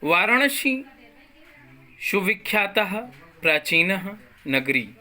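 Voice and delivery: "वाराणसी सुविख्यातः प्राचीनः नगरी" recited word by word, with pauses between; pronunciation demo. Shown as a demonstration. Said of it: "ध्यान दे उच्चारण पर". ("वाराणसी सुविख्यातः प्राचीनः नगरी" का उच्चारण, शब्दों के बीच रुककर)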